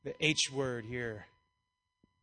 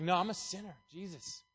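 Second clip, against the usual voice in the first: softer, slower, bowed-down plea; quietly asking for mercy; humble sinner's plea; 4 semitones higher, 8 dB quieter than usual. Retold or imitated. Tax collector begging God for mercy, soft and slow. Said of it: "It's like".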